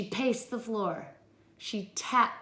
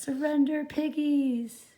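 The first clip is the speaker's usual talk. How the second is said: commanding witch; 6 semitones higher than usual. Acted. Witch circling demands.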